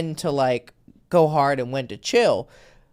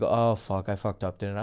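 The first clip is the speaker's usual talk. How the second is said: mock dismay; 9 semitones lower, 8 dB quieter than usual. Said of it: "He's like".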